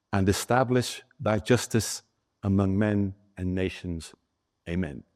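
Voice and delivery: put-on measured, reverent reading of an old wartime prayer; solemn prayer reading. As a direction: read it like a chaplain at the pulpit. Reads Patton's prayer aloud.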